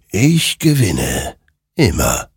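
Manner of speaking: slow, drawn-out final pronouncement; ominous creature. A narrator's reading. Creature answers Hector who won, slow and ominous. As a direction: savour each word with dark finality.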